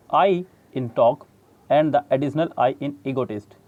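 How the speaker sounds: slow, deliberate reading of the English text; measured textbook read-aloud. Shown as a demonstration. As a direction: read the book passage out slowly. Reads English textbook passage aloud.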